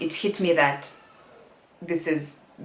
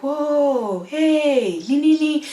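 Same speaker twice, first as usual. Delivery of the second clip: high, drawn-out soothing coo; long, tender "whoa, hey"; gentle dad; 8 semitones higher, much slower than usual. Retold or imitated. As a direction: imitate a concerned father hushing his crying child. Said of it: "never seen him so gentle".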